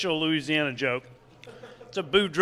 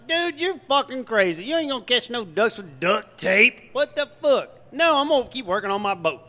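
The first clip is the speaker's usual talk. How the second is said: Boudreaux scoffing; 6 semitones higher than usual. Acted.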